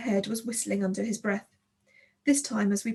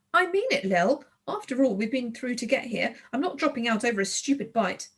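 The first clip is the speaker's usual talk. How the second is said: stubborn; 2 semitones higher than usual. Acted. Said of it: "Tulip was stubborn".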